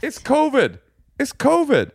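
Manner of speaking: high-pitched whiny mimicry; high mocking whine. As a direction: squeak it out like a mocking child. Mocking his wife's covid defense.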